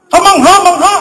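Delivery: high, loud amazed cry; amazed exclamation. Retold or imitated. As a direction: exclaim it in wonder, voice jumping up. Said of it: "Napataas yung tono ng boses niya". (mataas na boses sa pagkamangha)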